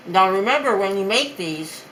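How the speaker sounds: talking with a mouthful; mouth full. Real, not acted. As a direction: speak through a bite of food. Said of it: "sorry, I'm talking with my mouth full now".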